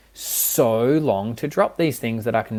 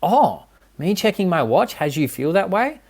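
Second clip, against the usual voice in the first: high, amazed, rising to a loud whoa; a partner suddenly discovering something; surprised husband; 9 semitones higher, 4 dB louder than usual. Retold or imitated. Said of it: "And he's like".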